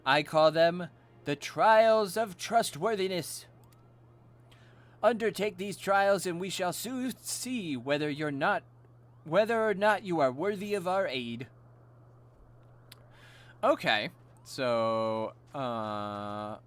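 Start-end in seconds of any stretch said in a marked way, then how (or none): 0.0-11.5 lightly voiced Moogle, curious then formal; lightly put-on voice of a ceremonious trial-giver; questioning Moogle elder. Moogle quizzes a stranger on names and announces trials, lightly voiced.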